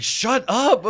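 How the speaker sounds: high, loud, laughing shut up; laughing hush. Retold or imitated. Mom elbows her daughter, laughing high and loud. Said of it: "I'm like".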